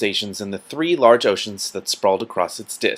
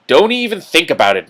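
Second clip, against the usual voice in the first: higher, louder anguished plea; moaning protest; 7 semitones higher, 6 dB louder than usual. Acted. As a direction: beg him to drop the idea. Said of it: "moaned Rincewind".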